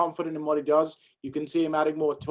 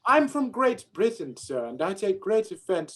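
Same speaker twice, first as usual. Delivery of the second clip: higher-pitched put-on British accent; 4 semitones higher than usual. Shown as a demonstration. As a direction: play an offended Briton with a mock British accent. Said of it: "You're allowed to do Scottish accents".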